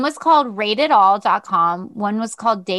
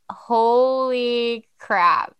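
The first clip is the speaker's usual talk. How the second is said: stunned; 2 semitones higher, much slower than usual. Retold or imitated. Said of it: "I was like".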